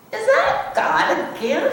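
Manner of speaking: high, laughing eager question; a delighted child voice; excited little cub. Acted. Little cub asking Mama about the star, eager.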